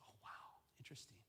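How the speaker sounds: near-whispered reaction; hushed intrigue. Acted. Student hearing the rumor about the leader, hushed and intrigued. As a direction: take in the gossip very softly.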